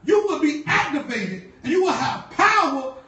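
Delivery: calls the church to denounce it; preaching at full force. Acted.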